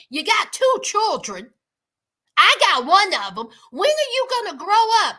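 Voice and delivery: lightly voiced scolding mom; a hint of an exasperated mother. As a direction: nag her grown daughter about growing up. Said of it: "So the mama is like".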